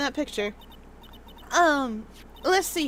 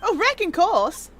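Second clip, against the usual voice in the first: southern drawl; 3 semitones higher than usual. Acted. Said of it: "Reckon course. It's short for you reckon".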